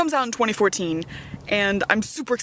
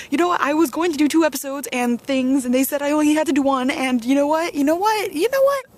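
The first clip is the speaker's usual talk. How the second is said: louder, higher rant rising to a shriek; building angry rant; 7 semitones higher, 4 dB louder than usual. Retold or imitated. Ranting at the classmate over her screenplay, rising to a shriek. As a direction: build the outrage until it cracks high.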